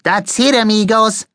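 put-on high accented exclamation of discovery; high-pitched eureka cry; excited cry. A narrator's reading. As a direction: announce the idea to your comrades. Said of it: "he cried".

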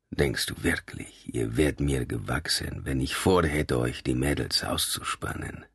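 low, slow, threatening voice; low menace. A narrator's reading. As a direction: lean in with quiet menace. Nico's low menacing challenge.

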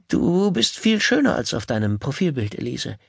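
high, eager date voice; a keen, nervous suitor; eager nervous man. Acted. Gail flatters his date.

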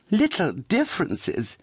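high, slow indignant cry; indignant echo. A narrator's reading. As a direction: throw the words back in disbelief. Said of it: "cried Charity".

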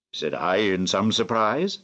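plain reading voice

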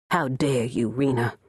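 low, cold and hard, a touch of menace; stony cold. Acted. Grandmother confronting Rena over favoritism, stony cold. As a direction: drop the voice into ice. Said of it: "in a voice as stony cold".

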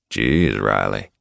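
low, slow breathy exclamation; breathed. A narrator's reading. Jack breathes out his lover's name, aroused. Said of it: "Jack breathed".

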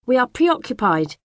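high, prim and very proper; best polite voice. A narrator's reading. Girl refusing the neighbour's tea in her best, prim voice. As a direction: put on your most polite manners. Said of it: "I say in my best voice".

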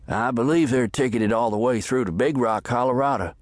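courteous ticket man, gently put on; lightly voiced ticket clerk. A narrator's reading. Ticket man telling the stranger the destination, polite clerk voice.

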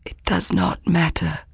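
rasping, dry-lipped whisper; hoarse whisper. Acted. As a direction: whisper it, throat raw. Dying messenger dismisses danger.

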